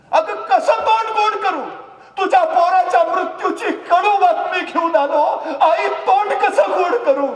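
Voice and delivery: high, loud anguished outcry; loud high anguished outburst; anguished cry. Acted. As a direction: cry out the bitter news in pain. Raje grieving, bringing death news.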